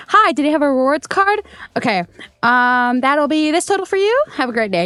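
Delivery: imitating rote register politeness; routine cashier patter. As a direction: rattle off the cashier script in a chirpy lilt. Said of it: "same thing over and over again".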